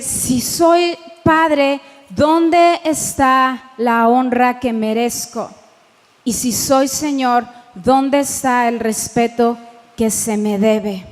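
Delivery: slow, weighty divine voice, leaning on soy; slow, weighty voice of God, a hint of reproach. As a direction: speak as God reproaching his people, slowly. Preacher voices God's complaint.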